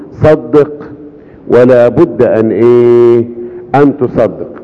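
drawn out, inviting them to answer; slow call to the congregation. Acted. Preacher coaxing the congregation to finish the verse, slow and drawn. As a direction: stretch it out and wait for the crowd.

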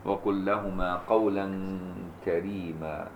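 slow chanted recitation; Quran recitation. Acted. Teacher closes the verse in slow chant. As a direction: draw out قولا كريما in melody.

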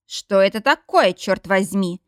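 an angry man barking at the flashlight; loud angry outburst. Acted. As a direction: snap it out, annoyed and loud. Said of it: "громко злится мистер Джонс".

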